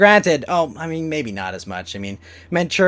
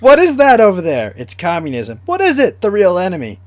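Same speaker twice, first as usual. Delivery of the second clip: astronaut meme voice; 5 semitones higher, 6 dB louder than usual. Acted.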